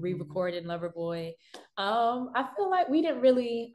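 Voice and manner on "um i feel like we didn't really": hoarse voice. Real, not acted. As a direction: voice mostly gone, rough and worn. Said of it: "I'm sorry, my voice is gone".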